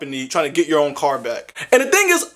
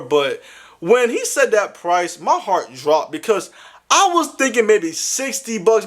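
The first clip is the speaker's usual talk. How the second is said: normal talking voice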